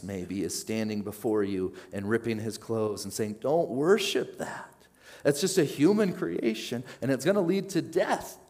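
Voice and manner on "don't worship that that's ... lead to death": higher, louder urgent plea building to a cry; voicing Jesus pleading. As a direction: beg them to turn back, rising to a peak. Jesus voiced pleading in sermon.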